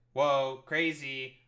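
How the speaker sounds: a loud, sarcastic "whoa" with fake shock. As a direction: throw it out as loud fake wonder. Mock amazement repeated, louder.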